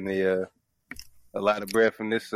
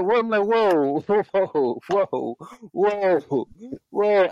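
high, repeated startled exclamations; hammed-up shock, pitched way up; mock alarm; 9 semitones higher, much slower than usual. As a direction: act out recoiling in comic disbelief. Retelling alarm at the rival gear.

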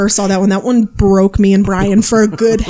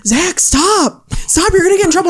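quoting a Vine; 8 semitones higher than usual. Retold or imitated. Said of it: "this one gets me every time when he goes".

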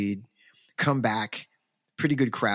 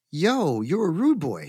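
raised, louder hey-you greeting; excited call-out; 6 semitones higher, 4 dB louder than usual. Retold or imitated. Student spotting a rude boy on campus, excited call-out. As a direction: hail him like you just spotted a kindred spirit. Greeting a fellow ska fan.

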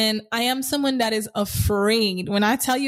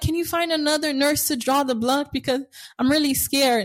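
mock scared plea; 4 semitones higher than usual. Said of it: "I'm like".

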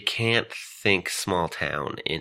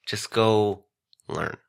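breathy whisper, no voice at all; whispered aside; 4 dB quieter, much slower than usual. Retold or imitated. Speaker whispering advice to closed-minded people. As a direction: hush it like a secret aside.

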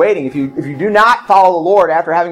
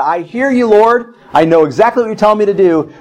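mock defiant reply; 4 semitones higher than usual. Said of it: "if you say to God".

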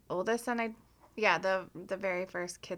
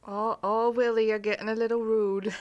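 lightly put-on mock Canadian; bad Canadian accent. Friend gently telling Willie he smells, mock Canadian accent. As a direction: reprise the badly faked Canadian accent. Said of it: "in my horrible Canadian accent".

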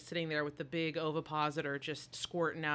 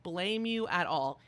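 much higher, louder excited cheer; 6 semitones higher, 7 dB louder than usual. Retold or imitated. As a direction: egg the queen on from the couch. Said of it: "And I was like".

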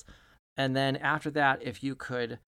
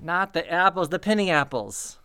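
raised voice, insistent on penny apples; exasperated shop boss calling out; louder correction; 4 semitones higher, 5 dB louder than usual. Acted. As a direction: stop them, correcting loudly. Correcting player smashing apples.

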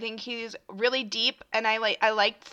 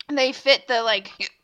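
speaking with hiccups. Real, not acted. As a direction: hiccup through the words. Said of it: "these hiccups are nuts".

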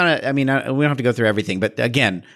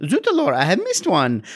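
put-on French accent; 5 semitones higher than usual. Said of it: "She does that a lot".

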